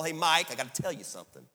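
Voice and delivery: a light New Orleans drawl repeated. Retold or imitated. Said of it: "in his New Orleans drawl".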